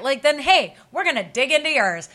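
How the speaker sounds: building angry rant. Real, not acted. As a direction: rail at the nine-to-fivers. Ranting at the public.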